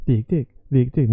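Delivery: quick VIKTIGT, still dipping then rising; quick down-and-up melody. Shown as a demonstration. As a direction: say "viktigt" quickly, keeping VIK longer. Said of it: "do it fast and still go down and up".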